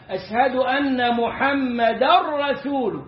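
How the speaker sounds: slow أشهد أن محمد رسول with the tanween merged into the ر. Shown as a demonstration. Teacher demonstrating full assimilation without nasalisation. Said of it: "إدغام كامل بغير غنة".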